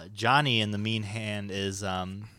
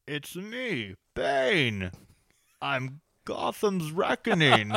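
slow muffled villain growl behind hands; Bane voice; 4 semitones higher, much slower than usual. Acted. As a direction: talk through your hands like Bane. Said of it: "to do the Bane".

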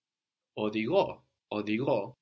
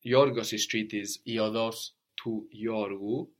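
slow model phrase; slower than usual. Shown as a demonstration. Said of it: "So we said, like".

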